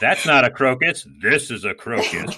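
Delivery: put-on playful Australian accent parodying the knife line. Host parodies Crocodile Dundee to cohost, mock Australian accent. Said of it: "says in an Australian accent".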